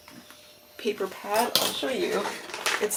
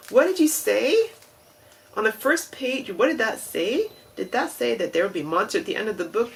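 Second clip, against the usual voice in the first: higher, excited puppet voice that speeds up at the end; Grover voice; 3 semitones higher than usual. Retold or imitated. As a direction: play the fretful Muppet reading the page. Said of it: "You know, Grover style".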